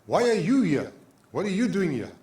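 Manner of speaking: insistent, pointed challenge; challenging questions. Acted. Voices challenge to the hider.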